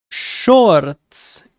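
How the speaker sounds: Shorts repeated slowly with a Spanish accent. Shown as a demonstration. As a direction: give shorts a Spanish sound. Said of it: "put a Spanish accent to it".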